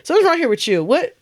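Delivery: mock suspicion. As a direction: probe him like a playful detective. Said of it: "I go".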